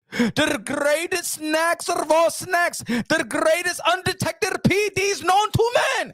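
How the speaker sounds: pushy orders with shouted checks; bossy promoter. Retold or imitated. Promoter ordering his chemist over the phone, pushy. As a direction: lean on him like a shady promoter.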